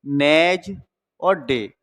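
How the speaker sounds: वेनेज, a pause, then डे; broken into parts. Shown as a demonstration. Teacher checking students follow, वेनेज and डे said apart. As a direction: split it as "ve-nej" and "de", no D in वेनेज. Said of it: "डी silent होता है".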